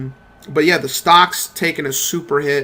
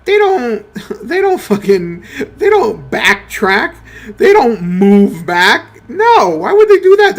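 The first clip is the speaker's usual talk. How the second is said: climbing higher and louder to a shout; building outrage; 5 semitones higher, 5 dB louder, slower than usual. Real, not acted. Ranting to viewers about Activision, rising to an outraged shout. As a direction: wind up into disbelief, peak on the last line.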